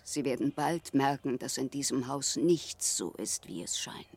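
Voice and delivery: ominous warning. Acted. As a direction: draw him in with a dark secret. Sister warns ominously of the house. (langsam, unheilvoll, bis zum Flüstern sinkend)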